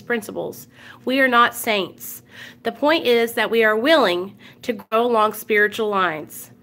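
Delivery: steady, measured recital of the steps; reading aloud. Acted. Reading the twelve steps to open the meeting, measured recital. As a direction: read it like the opening of a meeting.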